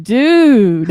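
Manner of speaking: loud, drawn-out awestruck exclamation; hammed-up astonishment; mock amazement. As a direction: play the wowed friend, big and long. Imagined amazed reply to encounter.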